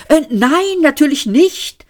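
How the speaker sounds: high-pitched, animated protest; lively denial. A narrator's reading. Zaphod denies visiting the planet, lively and high. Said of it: "sagte Seyfort lebhaft".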